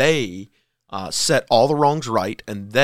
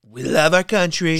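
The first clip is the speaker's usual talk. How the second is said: a light mock of her speech, higher and louder; mocking the politician; 6 semitones higher, 4 dB louder than usual. Co-host parrotting the quoted politician, lightly mocking. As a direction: echo her line as a lightly hammed-up parody. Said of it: "Then she says".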